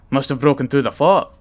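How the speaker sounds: a hint of a Scottish hunter; Scottish accent. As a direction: blurt the grim news in a Scottish accent. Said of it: "Rook's Scottish".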